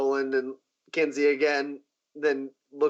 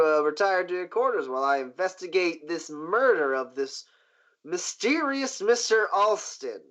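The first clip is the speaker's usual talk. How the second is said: pointed stress, pitched higher on "mysterious Mister Alston"; 4 semitones higher than usual. Acted. Boss dismissing guests to investigate murder, pointed. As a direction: land the name as a veiled accusation. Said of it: "he says pointedly at Roland".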